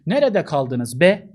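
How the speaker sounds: mock scolding. Shown as a demonstration. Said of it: "Kızma, öfkelenme anlamı katabilir".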